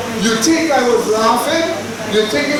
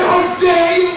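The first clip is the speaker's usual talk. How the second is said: indignant; 6 semitones higher, slower than usual. Acted. Acted offended woman again.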